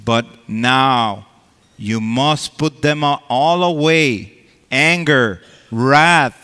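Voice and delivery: emphatic, proclaiming Bible reading; scripture reading. Acted. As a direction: read the verses out like preaching. Reads scripture from Colossians.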